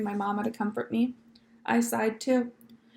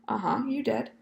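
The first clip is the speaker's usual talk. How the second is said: hushed reply. Acted. Girl answers eagerly, hushed.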